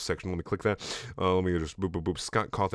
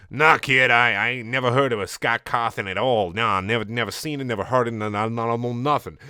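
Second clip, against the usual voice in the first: tough cop voice. Acted.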